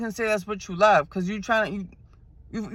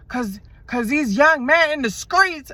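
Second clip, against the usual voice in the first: put-on old lady; 6 semitones higher, slower than usual. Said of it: "She talking about".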